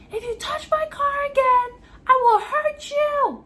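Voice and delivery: high, loud, slow threat; threatening the woman who keeps banging on her car. Retold or imitated. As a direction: warn her off hard.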